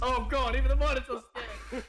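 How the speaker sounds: excited shout. Real, not acted. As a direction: burst out in amazement. Player reacts to scene.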